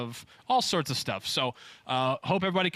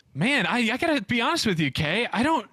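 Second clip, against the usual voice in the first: higher, measured sportscaster voice; Al Michaels impression; 5 semitones higher than usual. Impersonating Al Michaels for the host's game, sportscaster voice. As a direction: do Al Michaels calling it. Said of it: "Let's go with Al Michaels".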